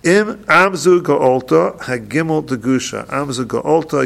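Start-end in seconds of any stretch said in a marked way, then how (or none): 0.5-1.8 "ga'olta" with a firm hard g; gimel with dagish. Shown as a demonstration. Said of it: "you pronounce the gimel". 3.1-4.0 "ga'olta" begun on a hard g; gimel with dagish. Shown as a demonstration. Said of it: "with a dagish".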